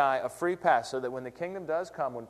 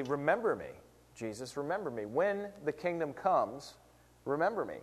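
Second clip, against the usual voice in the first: quiet plea; 5 dB quieter than usual. Retold or imitated. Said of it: "he says, essentially".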